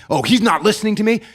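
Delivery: mock exasperation, mildly worked up; getting heated. Speaker in a heated discussion with you, mildly indignant. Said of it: "I'm starting to get heated".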